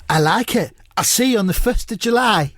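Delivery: comic impression, rising high; Mark Lawrenson. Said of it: "I'll just say them as Mark".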